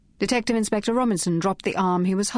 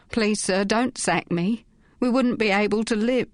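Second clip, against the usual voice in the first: pleading; 4 semitones higher than usual. Acted. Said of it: "He was now crying freely".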